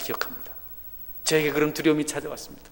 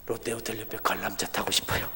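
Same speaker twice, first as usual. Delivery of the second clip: whisper; 4 semitones lower, 5 dB quieter than usual. Retold or imitated. Son's wish, voiced whisper.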